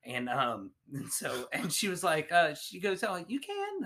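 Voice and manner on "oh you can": retold masseuse. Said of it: "I'm not gonna do the accent".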